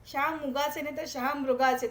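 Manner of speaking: शहामुगाचे wrong, then शहामृगाचे with a clear मृ; contrasting pronunciation. Shown as a demonstration. Teacher correcting शहामृगाचे for students. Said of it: "उस उच्चारण पे आपको ध्यान देना है".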